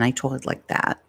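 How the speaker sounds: put-on low-pitched old New York accent; New York vowels on "talked". Shown as a demonstration. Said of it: "I used to have a New York accent".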